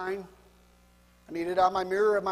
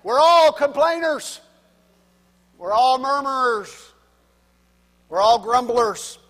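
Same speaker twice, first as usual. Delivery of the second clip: loud, slow, raised declaration; emphatic proclamation; 3 semitones higher, 10 dB louder, slower than usual. Real, not acted. Preacher telling the congregation they all complain, emphatic proclamation. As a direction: hammer each sentence out with a pause between. Preacher drives home the charge.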